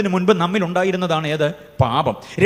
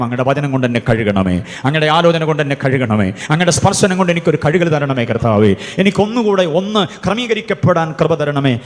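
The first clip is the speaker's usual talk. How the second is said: fervent model prayer; 5 dB louder than usual. Shown as a demonstration. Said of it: "എന്ന് പ്രാർത്ഥിക്കണം".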